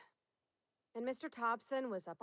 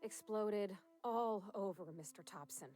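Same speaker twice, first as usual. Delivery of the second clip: slow dramatic; slower than usual. Acted. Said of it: "I love when you say it like that".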